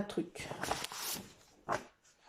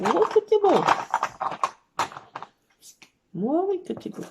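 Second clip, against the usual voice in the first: put-on doting baby talk; 6 semitones higher than usual. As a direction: gush over the cat, pitch up. Répète au chat, plus aigu et fort. (roucoulé aigu et fort au chat)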